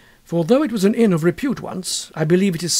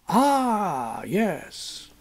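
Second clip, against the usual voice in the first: landlord agreeing; 3 semitones higher, 3 dB quieter than usual. Acted. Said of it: "Mister Betts agreed".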